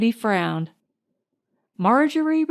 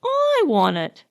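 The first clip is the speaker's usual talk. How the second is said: mild mock shout; 8 semitones higher than usual. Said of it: "shouted Herbert".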